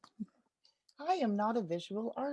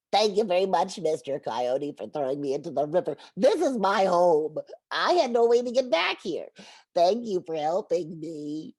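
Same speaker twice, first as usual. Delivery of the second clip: louder, teasing turtle; 3 semitones lower, 6 dB louder than usual. Acted. Turtle teases the coyote from the water, louder and smug. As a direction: thank the coyote with a smug grin. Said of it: "stuck his head up".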